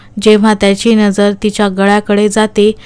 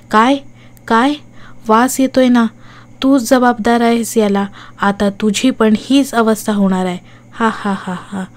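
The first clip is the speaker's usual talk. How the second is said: taunting ghost. Acted. Ghost taunts then cackles.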